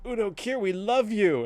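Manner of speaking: high, excited fan squeal. Retold or imitated. Two women leaving the convention, calling to Udo Kier in high excitement. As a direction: gush at him like adoring fans.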